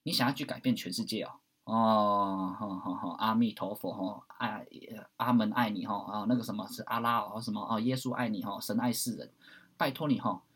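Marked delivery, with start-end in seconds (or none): 1.6-10.4 lower, sarcastic sermon tone; mock preachy. Mocking people who want to change the world, preachy. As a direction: parody a pious do-gooder.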